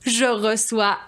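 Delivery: grand, high-pitched poetry show announcer; theatrical host introduction. Acted. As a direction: announce the guest with swooping flourish.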